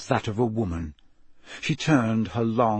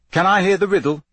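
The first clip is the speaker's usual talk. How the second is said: put-on young Harry; 7 semitones higher, 6 dB louder, faster than usual. A narrator's reading. Harry asks the Sphinx.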